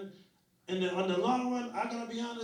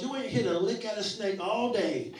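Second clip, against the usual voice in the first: raised, loud mock scolding; scolding grandmother; 4 semitones higher, 5 dB louder than usual. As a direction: imitate a grandmother telling someone off.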